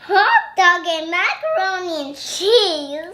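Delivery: loud, laughing question. Real, not acted. Child laughing about the character's choice. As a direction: laugh as you ask.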